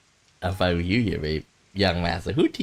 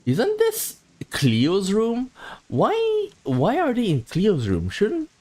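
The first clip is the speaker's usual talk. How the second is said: startled question; 12 semitones higher, much slower than usual. Acted. Surprised at the room choice.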